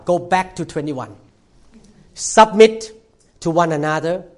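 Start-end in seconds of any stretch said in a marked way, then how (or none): 2.2-4.2 loud emphatic reading. Shown as a demonstration. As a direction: boom out Submit to one another. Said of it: "read back to verse twenty-one".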